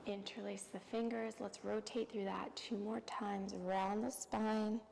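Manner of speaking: soft, unhurried yoga-teacher voice with long pauses; guided yoga relaxation. Real, not acted. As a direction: ease them through each breath, softly. Leads calming yoga practice.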